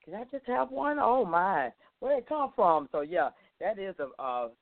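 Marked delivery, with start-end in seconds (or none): 0.0-2.9 sudden high-pitched wonder; surprised. Retold or imitated. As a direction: gasp it out as a happy surprise. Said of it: "kinda like".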